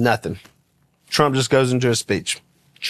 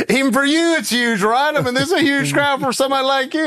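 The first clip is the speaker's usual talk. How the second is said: playful Trump impression; 9 semitones higher than usual. Voicing Trump on the bus.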